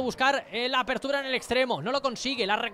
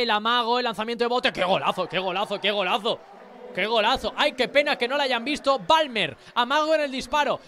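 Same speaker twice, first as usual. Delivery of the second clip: fast excited goal call, louder; breakneck goal commentary; 3 dB louder than usual. Real, not acted. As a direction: shout the goal, thrilled. (narración de gol frenética)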